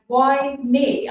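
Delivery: mildly wailed, retelling despair; anguished retold question. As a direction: ask it in helpless protest. Retold despair at doctor's answer.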